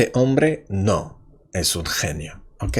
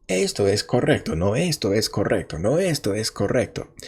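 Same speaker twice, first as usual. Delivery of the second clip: quick mock argument; faster than usual. Shown as a demonstration. Acted quarrel demo.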